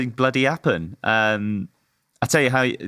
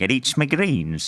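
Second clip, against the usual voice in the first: put-on cartoon voice with a Yorkshire accent. Joking around before the podcast starts: Yorkshire Popeye voice. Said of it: "It was like a Yorkshire Popeye".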